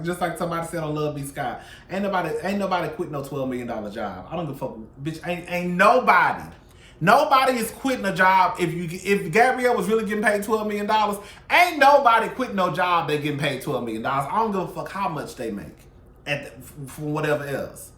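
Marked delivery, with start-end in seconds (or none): 5.0-15.5 louder, insistent ranting; heated rant. Real, not acted. Vlogger ranting to viewers about the rumor, louder. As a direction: lean in and hammer the point.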